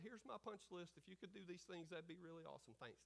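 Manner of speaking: soft, offhand imitation of praying; mock casual prayer. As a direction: toss off a token prayer. Mocks a casual, cheapened prayer.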